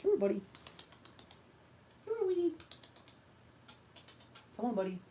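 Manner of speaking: sing-song high voice coaxing the cat; high pet-talk call. Real, not acted. Calling the cat over.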